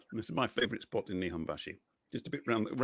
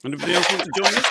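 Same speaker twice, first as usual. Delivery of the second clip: calling out; 9 semitones higher, 9 dB louder, faster than usual. Real, not acted. Calling out to the audience.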